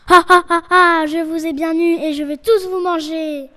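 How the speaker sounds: loud triumphant villain laugh; evil gloating laugh. Acted. Wolf gloating at the caught kids, loud evil laugh. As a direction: cackle loudly over your trapped prey.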